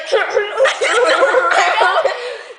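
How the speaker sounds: high, laughing frog-like gurgle; imitated throat bubbling. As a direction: copy a friend's odd throat noise. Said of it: "The way you're like".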